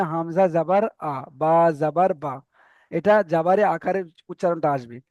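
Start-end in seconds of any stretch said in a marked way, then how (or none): 0.0-2.3 slow recital drill. Shown as a demonstration. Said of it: "এটা আপনাদেরকে করে নিতে হবে".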